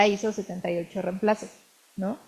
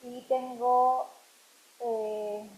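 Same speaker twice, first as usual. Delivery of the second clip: muttering to herself; 12 dB quieter than usual. Real, not acted. Muttering to herself while editing.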